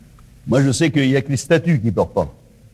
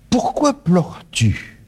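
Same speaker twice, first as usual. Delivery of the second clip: slow question; 3 semitones higher, slower than usual. Acted. Repeats the key question.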